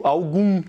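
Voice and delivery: ALGUM with a nasalised final U; nasal U. Shown as a demonstration. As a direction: end ALGUM through the nose. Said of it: "tá só nasalizando esse U". ("algum" com U nasal)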